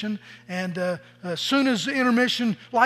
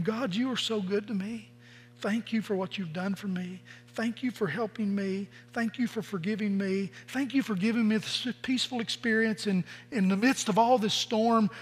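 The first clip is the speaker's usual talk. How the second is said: soft, grateful thanks spoken to God; hushed and sincere, like praying; tender prayer; 6 dB quieter than usual. Pretend. Believer thanking God in the storm, soft and tender.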